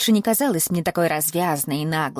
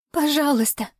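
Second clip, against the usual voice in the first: high, sobbing please in a woman's voice; 8 semitones higher than usual. A narrator's reading. Exhausted woman sobs her plea to the captor, high. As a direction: beg through a last sob. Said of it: "всхлипнула она".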